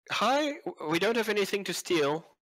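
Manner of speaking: very high, puzzled, quizzical tone. Voicing a character greeting newcomers: quizzical. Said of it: "Kind of quizzically".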